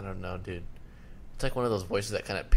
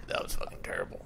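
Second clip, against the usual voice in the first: very low, softer mock-angry growl; friend's angry voice; 14 semitones lower, 6 dB quieter, faster than usual. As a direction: imitate a friend's deep pissed-off voice. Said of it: "Do the voice you do".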